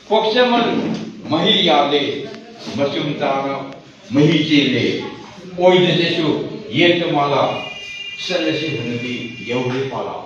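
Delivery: punchy declaimed verse in short bursts; emphatic poetry reading; poem recitation. Acted. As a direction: hit each short line firmly, then pause.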